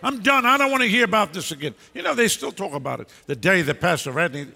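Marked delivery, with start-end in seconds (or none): 0.0-1.7 firm retold telling-off. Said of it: "I said, I said".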